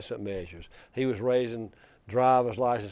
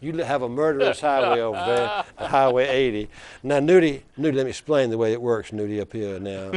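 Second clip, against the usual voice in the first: put-on Wallace's Black Belt accent; 7 dB louder than usual. Wallace lecturing Nudie over the gas tax, in a mild Black Belt accent. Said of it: "he says in that deep black belt accent".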